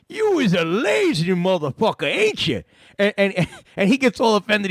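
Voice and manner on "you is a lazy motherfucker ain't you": mock gruff prank voice. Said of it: "I told him, I said".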